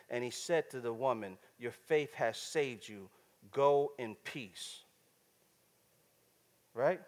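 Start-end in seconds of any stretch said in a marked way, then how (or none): 1.6-4.8 tender blessing. Acted. Jesus speaking to the woman.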